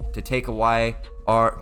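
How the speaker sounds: a hint of Australian on "our"; "our" drifting Australian; accidental Australian accent. Real, not acted. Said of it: "became Australian".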